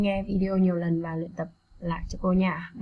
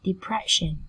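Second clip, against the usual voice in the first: "Depression" with stress on the second syllable, PRESH. Shown as a demonstration. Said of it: "Các em đọc nhấn mạnh hơn âm tiết presh".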